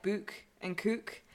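"book and cook" with long northern oo sounds; Northern vowels. Shown as a demonstration. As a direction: draw out the oo in "book and cook", slowly. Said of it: "we say, like".

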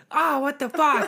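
high startled yell, laughing; mock-shocked mom catching him; a laughing imitation of mom's startled cry. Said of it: "so my mom was like".

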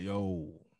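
rough low raspy call. Retold or imitated. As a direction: rasp out a low greeting. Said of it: "he got this real raspy voice".

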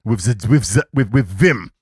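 stumbling through a comic German accent; mock German accent. Shown as a demonstration. Host showing how Germans speak English, mock German accent. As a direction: put on a rough German accent with punched words. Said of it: "And that's the German accent".

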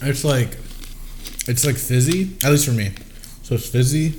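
talking through a mouthful of peanuts; words around chewed food; mouth full. Real, not acted. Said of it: "Sorry, I got food in my mouth".

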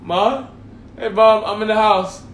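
sweet voice. Retold or imitated. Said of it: "talk to you in a sweet voice".

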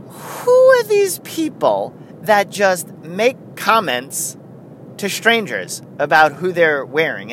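lightly mimicked stand-up bit, high opening; Jerry Seinfeld. Puzzling over strangers' comments, light comic impression. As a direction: draw out the opening like a bemused comic. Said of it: "That's a bad Seinfeld impersonation".

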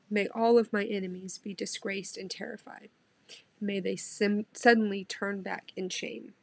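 moved devotional Bible reading; heartfelt scripture reading. Real, not acted. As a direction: pray the words as if they were your own. Emotional Psalm reading.

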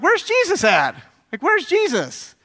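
high, loud panicked cry; acting out a frantic search in a storm; panicking disciple.

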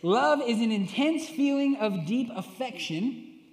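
slow, formal dictionary read; reading the definition. Retold or imitated. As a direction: read it out like a quoted entry. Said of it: "Google says".

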